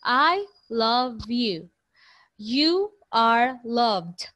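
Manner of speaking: slow, careful sentence reading; slow example sentences. Shown as a demonstration. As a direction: say each example slowly for the class. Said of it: "For example".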